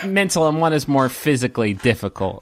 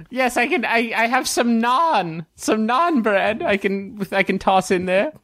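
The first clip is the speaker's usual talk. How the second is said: lightly voiced, higher dwarven vendor; a hint of the high-voiced stallholder; dwarven fried-food conjurer; 10 semitones higher than usual. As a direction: offer your wares in a slightly raised character voice.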